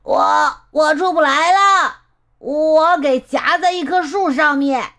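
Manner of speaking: high, wailing call for help; calling from afar. Acted. Stuck cousin calls from the tree.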